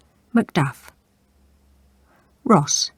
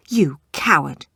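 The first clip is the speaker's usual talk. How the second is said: spat; 3 dB louder than usual. Acted. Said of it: "spat Lady Macbeth".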